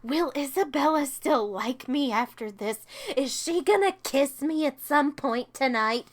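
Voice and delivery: lightly voiced lovesick teen; mock a swooning teenager; mild mock teenage crush voice. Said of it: "Poppy going".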